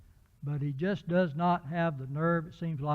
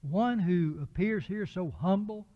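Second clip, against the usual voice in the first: incredulous Pilate; slower than usual. Retold or imitated. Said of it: "he's in essence saying".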